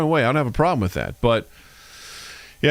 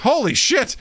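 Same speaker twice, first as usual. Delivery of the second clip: retold amazement; 9 semitones higher than usual. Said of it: "I was like".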